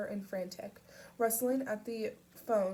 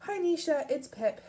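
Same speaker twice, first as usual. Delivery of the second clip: rasping voice; 7 semitones higher, 7 dB louder than usual. A narrator's reading. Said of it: "her voice rasping at the edges".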